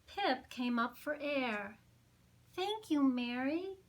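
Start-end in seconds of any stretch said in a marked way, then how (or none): 2.5-3.8 joyful cry. Acted. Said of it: "she cried".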